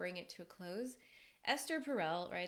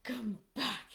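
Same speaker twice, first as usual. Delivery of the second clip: pleading call. Pretend. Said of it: "And she's like".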